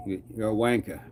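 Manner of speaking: light stab at British slang in a British accent; attempted British accent. Shown as a demonstration. Streamer testing slang that doesn't sound right, attempted British accent. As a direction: try on a British "wanker", dropping the final r. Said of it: "in an accent that's not in your dialect".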